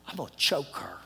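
low, soft grumble; muttered mock threat. Traveler fed up with the ticket girl, low mock threat. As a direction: mutter it low under your breath.

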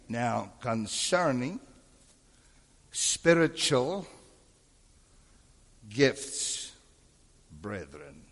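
very slow, long pauses between words; slowed-down reading. Shown as a demonstration. Teacher showing the pastor how to reread the verse, slow and deliberate. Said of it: "slow down. Read it again".

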